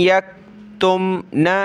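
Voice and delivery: यक्तुमना slow with the न hummed nasally; nasal ghunna. Shown as a demonstration. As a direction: give यक्तुमना a nasal hum on नून. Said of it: "नाक में आवाज़ पैदा करेंगे". (यक्तुमना, नाक में आवाज़ के साथ)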